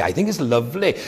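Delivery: a light Welsh lilt, think rising. Retold or imitated. Quoting the Welsh pastor's catchphrase to the congregation, in a light Welsh lilt. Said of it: "his voice went up and down".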